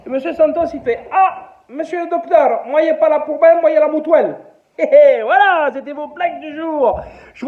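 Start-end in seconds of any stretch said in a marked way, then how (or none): 1.1-4.4 put-on caricatured Portuguese accent. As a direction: play the broken French of a Portuguese worker. Santos answers the doctor.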